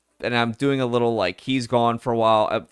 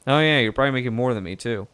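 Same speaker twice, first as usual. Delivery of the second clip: lightly southern reporter voice, easygoing; southern accent; 4 semitones higher than usual. Acted. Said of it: "now it's going really southern".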